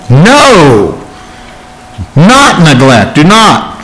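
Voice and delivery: NO drawn out with a falling pitch, then a firm NOT; emphatic prohibition, stressing NO and NOT. Shown as a demonstration. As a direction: hit NO and NOT emphatically, with pauses between. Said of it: "Very emphatically".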